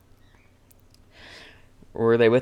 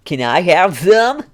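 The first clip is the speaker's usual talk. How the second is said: high, slow, deadpan meme delivery; 6 semitones higher, 5 dB louder than usual. Acted. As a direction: ask like a deadpan internet meme. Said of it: "that's the kind of a meme voice".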